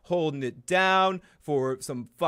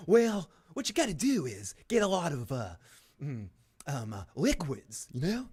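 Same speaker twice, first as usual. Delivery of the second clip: Doctor Phil impression. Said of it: "Doctor Phil here".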